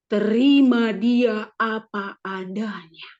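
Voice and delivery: slow, measured inner voice; God's whisper. Retold or imitated. God answering the praying wife, slow and calm. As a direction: let each word fall slowly, like a divine nudge. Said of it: "Itu bisikan Tuhan kepada saya".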